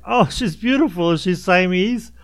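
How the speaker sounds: high, gushing imitation of a cooing question; mock gushing. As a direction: imitate yourself cooing over a cat photo. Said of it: "you're like".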